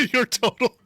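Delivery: high robotic machine voice, stuck repeating; piercing robot. Acted. Ticket booth announces a broken total, piercing robotic voice. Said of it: "It's that piercing robotic voice".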